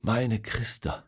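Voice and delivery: soft, slow, worn-out murmur; exhausted and relieved. Acted. Returning soldier holds his daughter, mistaking her for his wife, exhausted and relieved. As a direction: let it fall out of him in relief. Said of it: "Erschöpft und erleichtert sagt er".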